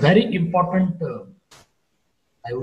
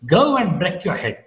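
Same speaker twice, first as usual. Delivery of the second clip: "Go" swoops up and falls; haughty arch on "Go"; haughty dismissal; 3 semitones higher than usual. Shown as a demonstration. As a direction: dismiss them with a rise-fall on "Go". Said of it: "you express this kind of haughtiness".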